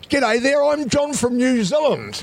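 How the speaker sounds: high-pitched, drawn-out hello to a crowd; camp-meets-macho self-introduction, pitched high; sort-of-gay, sort-of-masculine greeting. Retold or imitated. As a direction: announce yourself way up high, half camp, half manly. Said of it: "In a sort of gay, sort of masculine way".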